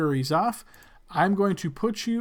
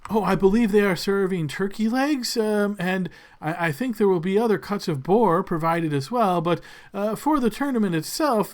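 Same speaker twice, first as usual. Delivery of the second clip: fawning servant; 3 semitones higher than usual. Acted. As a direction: gush over the lord's name. Servant describes feast.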